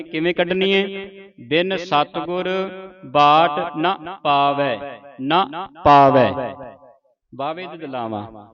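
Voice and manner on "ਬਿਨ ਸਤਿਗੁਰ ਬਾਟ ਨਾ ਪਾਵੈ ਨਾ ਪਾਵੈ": slow line with a short, unmarked ਨਾ before ਪਾਵੈ; bare n sound. Shown as a demonstration. Teacher models the line, slow with short separate ਨਾ. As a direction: set ਨਾ apart, short vowel, then ਪਾਵੈ. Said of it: "ਨੰਨੇ ਦੀ ਮੁਕਤੀ ਦੀ ਆਵਾਜ਼ ਉਚਾਰਨ".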